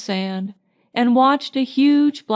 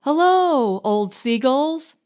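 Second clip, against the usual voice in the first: cried out; 4 semitones higher than usual. A narrator's reading. Marjorie calling to the seagulls, gleeful cry. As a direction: shout a hello to the birds. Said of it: "cried Marjorie".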